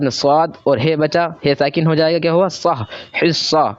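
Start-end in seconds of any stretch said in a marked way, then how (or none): 2.5-3.6 सह then हिस्सा, built slowly syllable by syllable; slow syllable reading. Shown as a demonstration. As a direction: join the syllables slowly into the word. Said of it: "जिस तरीके से मैं पढ़ रहा हूँ". (धीरे-धीरे शब्द जोड़कर)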